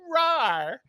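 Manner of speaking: a short put-on "rawr"; imitated roar. Imitating a costumed woman introducing Animal, mock roar. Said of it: "the girl would go".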